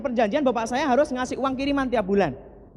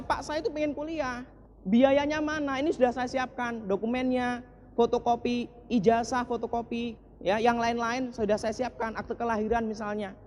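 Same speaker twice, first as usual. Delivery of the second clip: tearful plea; 5 dB quieter than usual. Retold or imitated. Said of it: "Saya nangis ke bapak saya".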